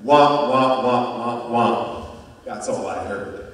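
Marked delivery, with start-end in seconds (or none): 0.0-2.2 Charlie Brown adult womp. Retold or imitated. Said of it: "heard an adult speak in the Charlie Brown episode".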